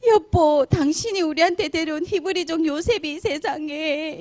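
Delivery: high, hammed-up tearful complaint; fake tearful acting. Wife accuses Joseph to her husband, faking tearful distress. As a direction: whine it out, pretending to be a victim. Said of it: "이러면서 연기를 한 거예요".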